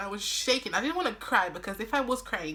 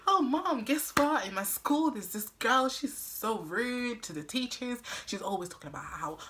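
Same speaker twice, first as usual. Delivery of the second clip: nervous chatter. Retold or imitated. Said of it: "talking like a radio".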